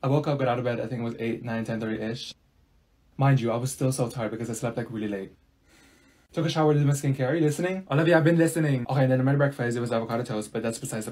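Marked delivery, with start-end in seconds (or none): none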